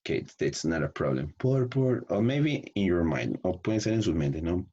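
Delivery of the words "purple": "Purple" high and stretched; drawn-out practice demo. Shown as a demonstration. Teacher models practising a colour, "Purple" drawn out high. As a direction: hold "Purple" long on a raised pitch. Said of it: "you have to practice like this".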